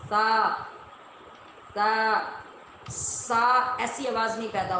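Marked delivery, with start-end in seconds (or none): 0.1-2.2 سا with the tongue tip at the upper teeth, soft; soft tha. Shown as a demonstration. Teacher models soft سا for students. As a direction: say سا softly without a whistle. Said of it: "تو نرمی سے یہ حرف ادا ہوگا".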